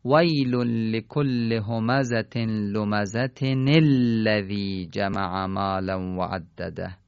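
slow chanted tajweed recitation, joining the verses; Quran recitation. Shown as a demonstration. Teacher reciting verses joined for students, slow chant. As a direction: recite it slowly, linking لمزة to الذی with a kasra nun.

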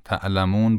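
"تعلمون" with a hard glottal catch after ت; hamza. Shown as a demonstration. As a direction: cut the sound off sharply inside "تعلمون". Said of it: "با همزه". («تعلمون» با همزه، صدا قطع و حبس)

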